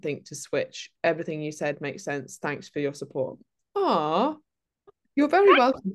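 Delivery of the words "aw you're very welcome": warm. Real, not acted. Reply to listener thanks.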